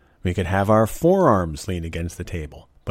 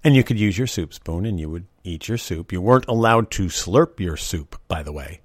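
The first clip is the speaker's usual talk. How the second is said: ordinary talk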